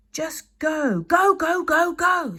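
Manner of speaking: high, loud frantic screaming. Acted. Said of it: "screamed Hiccup".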